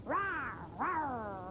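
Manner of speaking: troll roar. Acted. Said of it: "the scary, ugly troll".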